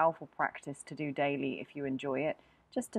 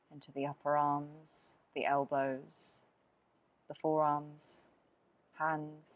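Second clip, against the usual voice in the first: guided meditation. Acted. Teacher guiding a body scan from crown to toes, guided meditation. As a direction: lead them down through the body, phrase by unhurried phrase.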